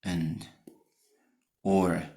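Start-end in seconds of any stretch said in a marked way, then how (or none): 0.0-0.5 "And" said soft with a schwa; unstressed "And" with schwa; weak form of and. Shown as a demonstration. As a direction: reduce "And" to a quick schwa. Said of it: "the weak forms that are with schwa".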